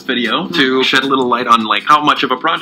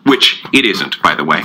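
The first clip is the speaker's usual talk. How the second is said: smug Logan puppet. Acted. Logan puppet coolly asserting his own importance. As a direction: correct him coolly.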